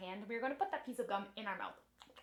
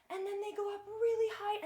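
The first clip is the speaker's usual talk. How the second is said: voice climbing high; 9 semitones higher than usual. Shown as a demonstration. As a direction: pitch lifted high like a coaster. Voice climbs like roller coaster.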